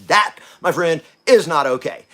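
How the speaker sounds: firm retort. Retold or imitated. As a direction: put your foot down on it. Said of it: "And he says".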